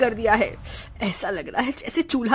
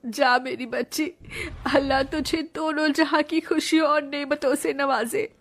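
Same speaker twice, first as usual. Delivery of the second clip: tearful farewell; 3 semitones higher than usual. Acted. Aunt sending niece off at wedding.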